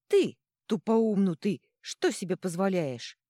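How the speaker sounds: loud, high squawk of outrage; indignant screech. A narrator's reading. Little god to the troll who hit him, screeching. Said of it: "заверещал Божок".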